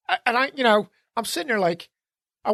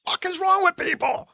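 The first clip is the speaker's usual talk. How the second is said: retold outrage; 8 semitones higher than usual. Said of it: "I was like".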